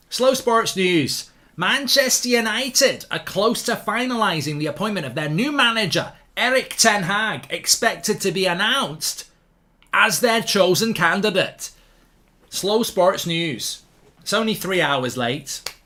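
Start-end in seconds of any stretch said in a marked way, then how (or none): 0.1-1.3 slowed-down, booming announcer call; news jingle voice. Shown as a demonstration. Mock sports news jingle, slow and booming. 1.6-11.7 higher, louder announcer read of the headline; mock news read. Shown as a demonstration. Mocking late news, read as a big announcer headline. 12.5-13.8 slowed-down, booming announcer call; news jingle voice. Shown as a demonstration. Mock sports news jingle, slow and booming.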